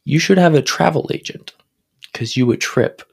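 mock poem recital. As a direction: recite it like a grand poet. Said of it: "I got one more".

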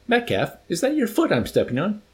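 high-pitched, exasperated question; acted officer rounding on a subordinate; irritated rebuke. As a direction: pitch it up in mild outrage. Colonel rebukes his major.

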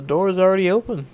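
put-on a curious little girl speaking up; a hint of a bright little girl; girl's voice. A narrator's reading. Girl voices her thought.

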